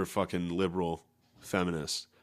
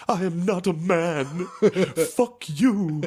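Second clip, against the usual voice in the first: pitched way up and louder, laughing through it; high mock shriek; 10 semitones higher, 5 dB louder, slower than usual. Comic imitating trans guy in video, laughing mock shriek. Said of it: "he was like".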